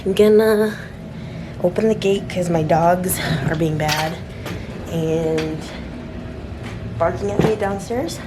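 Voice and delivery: a little winded walking upstairs; climbing stairs. Real, not acted. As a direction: talk while climbing stairs. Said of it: "walking up the stairs".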